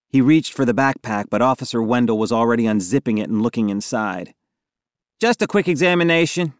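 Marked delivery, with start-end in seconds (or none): 5.2-6.5 higher, lightly apologetic. A narrator's reading. Officer opening the boy's backpack, apologetic. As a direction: excuse it in a raised, polite pitch. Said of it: "she said with an apologetic look".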